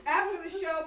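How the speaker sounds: giggling restart of the line; laughing. Real, not acted. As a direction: still laughing through it. Retake while still laughing.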